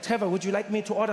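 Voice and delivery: lightly voiced German friend; slight put-on German accent; Rolf. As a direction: offer help with a German accent. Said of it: "he's like".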